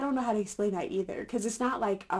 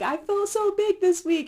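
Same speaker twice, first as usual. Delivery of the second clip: exaggerated; 11 semitones higher, 5 dB louder than usual. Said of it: "I even wrote down on here too".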